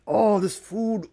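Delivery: high, slow savoring moan; high, drawn-out delight. Acted. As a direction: relish the first bite. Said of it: "He was just like".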